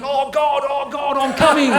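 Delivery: rising high and loud mock moan. Little Johnny imitating his mum, rising high and loud. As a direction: ham up the mum's moaning, climbing.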